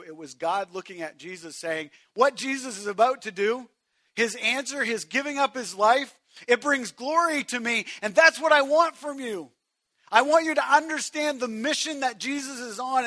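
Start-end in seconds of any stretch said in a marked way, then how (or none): 2.1-13.0 voice of God. Acted. Voicing God to Jesus.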